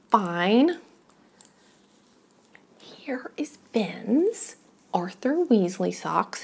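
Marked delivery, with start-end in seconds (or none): 2.8-6.4 whispering. Real, not acted. Whispered slow reveal.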